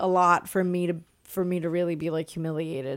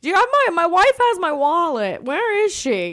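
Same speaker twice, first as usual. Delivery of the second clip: put-on higher, louder frantic old man asking for his wife; high confused old man; 9 semitones higher, 6 dB louder than usual. Lost old man voiced.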